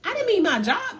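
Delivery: high, whiny mock complaint. Mimicking a client who lost her job, high whiny mock. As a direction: whine it like a spoiled client, way up high.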